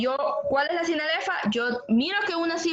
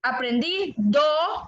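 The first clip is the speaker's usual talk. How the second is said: "aprendí do" broken into slow, louder syllables; slow syllable split; 4 dB louder, much slower than usual. Shown as a demonstration. Teacher showing students the syllable break, slow and louder. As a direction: split "aprendí do" apart slowly, a beat between. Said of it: "aprendido E".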